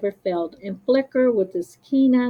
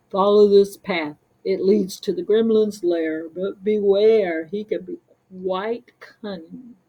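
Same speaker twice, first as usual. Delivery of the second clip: cave dweller warning; 4 dB louder than usual. Acted. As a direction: warn them, dropping to a secret hush. Cave dweller warns, ends whispering.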